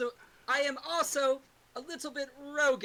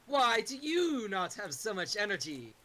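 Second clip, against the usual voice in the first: slow sage voice. Acted. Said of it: "We're all using character voices".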